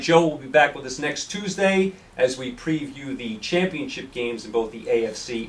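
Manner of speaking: hoarse, worn-out voice; losing voice. Real, not acted. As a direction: voice nearly gone, straining. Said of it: "I really am losing my voice here".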